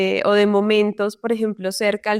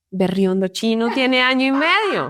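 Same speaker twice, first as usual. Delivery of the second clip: amazed laugh through the words; laughing in disbelief; 2 semitones higher than usual. Real, not acted. Mother laughing at her toddler's uncanny answer, amazed. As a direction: laugh it out, astonished.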